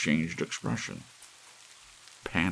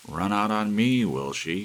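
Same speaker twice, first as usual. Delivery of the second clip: muttered thickly; 6 semitones higher, 8 dB louder than usual. Acted. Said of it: "he muttered thickly".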